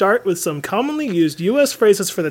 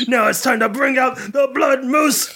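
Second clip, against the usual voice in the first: booming arena intro; arena announcer shout; 4 semitones higher than usual. Pretend. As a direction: build it up like a stadium announcer.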